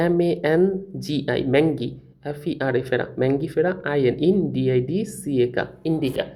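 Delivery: "ম্যাঙ্গি ফেরা" built from "এম এ এন, জি আই"; spelled out syllable by syllable. Shown as a demonstration. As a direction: spell each syllable, then join into "ইন্ডিকা". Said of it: "এরকমভাবে ... ভাগ ভাগ করে দিতাম".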